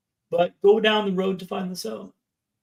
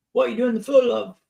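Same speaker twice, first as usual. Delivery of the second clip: lightly imitating an English nurse, slightly higher; a touch of a chatty English nurse's accent; 3 semitones higher than usual. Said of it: "It's my English accent".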